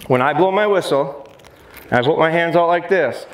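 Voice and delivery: ordinary talk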